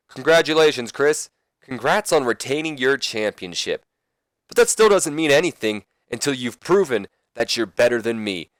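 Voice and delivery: a hint of a rival's challenge; Kurt Angle. Rival addressing the champion after his win, lightly acted promo. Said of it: "Kurt says".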